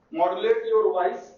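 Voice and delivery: very slow, each word spaced out for note-taking; slow dictation. Shown as a demonstration. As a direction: spell it out slowly like dictating to the class. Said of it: "teacher dictates key phrase". (धीमी गति से लिखवाना)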